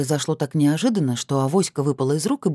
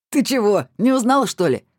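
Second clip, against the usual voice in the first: louder, higher mocking tease; teasing; 7 semitones higher, 4 dB louder than usual. Tamarka teases Lyuba who did not recognise her, loud and high.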